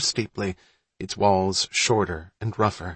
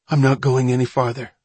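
firm announcement; 3 semitones higher, 5 dB louder than usual. Acted. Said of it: "Malin announced".

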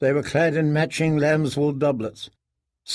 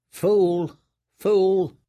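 higher, scornful mutter; bitter self-reproach; 6 semitones higher than usual. A narrator's reading. Prisoner cursing his own folly, higher and bitter. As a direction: curse yourself.

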